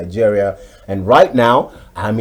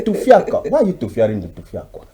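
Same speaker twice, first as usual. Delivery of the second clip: much higher and louder ranting Nigerian elder, breaking into laughs; mock outraged elder; 10 semitones higher, 7 dB louder than usual. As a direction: rant the list of diseases like an old man in a comic radio drama. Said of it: "And the guy will say".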